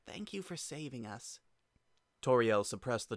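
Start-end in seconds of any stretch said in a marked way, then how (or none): 0.1-1.4 soft, sad and higher; weak, sad. Acted. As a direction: whisper thanks with a sad smile. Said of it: "With a weak, sad smile".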